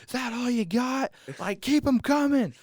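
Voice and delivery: high-pitched trash-talk taunt; mock taunting. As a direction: goad the other team in a high, drawn-out voice. Acting out taunting paintball opponents.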